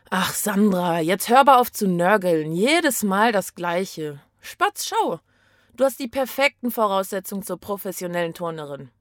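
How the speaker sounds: a mother tuts, then coaxes; lightly voiced mom, exasperated then sweet; scolding mother. Mother scolds Sandra for whining, then coaxes her.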